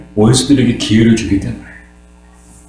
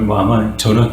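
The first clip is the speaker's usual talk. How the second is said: ordinary delivery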